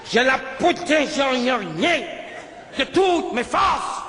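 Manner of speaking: slow vow swelling into a shout; heroic shout. Retold or imitated. To the attacker, slowly swelling into a heroic shout. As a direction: proclaim it like a hero, slow and rising.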